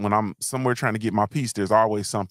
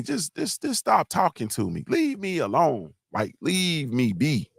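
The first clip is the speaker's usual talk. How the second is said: higher, slow leave me be; weary plea; 6 semitones higher than usual. Real, not acted. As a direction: stretch it out, begging for peace.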